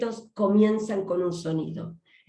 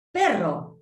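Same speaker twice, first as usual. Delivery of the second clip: robot voice. Shown as a demonstration. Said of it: "Entonces el robot dice".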